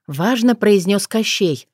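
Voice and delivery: plain reading voice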